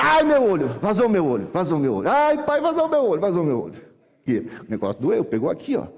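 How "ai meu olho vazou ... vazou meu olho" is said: hammed-up boy howling in fake agony; faked pain wailing. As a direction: play a sly kid faking an injury. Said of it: "eu já menti que pegou no olho".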